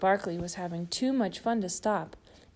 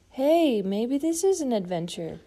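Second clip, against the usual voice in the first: mild cry; 4 semitones higher, 3 dB louder than usual. Acted. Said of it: "Big Bird cried".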